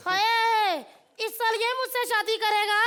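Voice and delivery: put-on elderly bride. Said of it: "ये कितनी बूढ़ी है".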